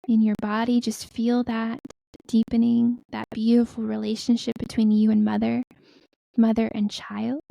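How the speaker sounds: spaced-out phrases, measured meditation voice; guided meditation. Acted. Healer guiding listeners to breathe into the earth, guided meditation.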